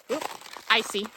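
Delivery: talking over crunching ice; walking on icy crunching ground; crunching footsteps. Real, not acted. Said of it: "sorry for all the crunching".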